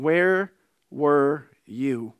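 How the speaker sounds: slow, drawn-out stern demand; a mother confronting her late son; stern mom. Retold or imitated. Mom confronting her son at one in the morning, slow stern demand.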